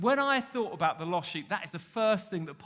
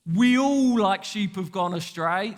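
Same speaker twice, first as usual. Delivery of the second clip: slow, drawn-out Australian accent; 4 dB louder than usual. Shown as a demonstration. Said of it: "say it in an Australian accent".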